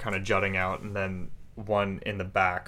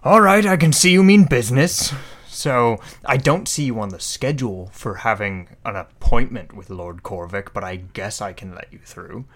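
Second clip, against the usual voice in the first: guard voice; 6 dB louder than usual. Acted. Guard yields after intimidation.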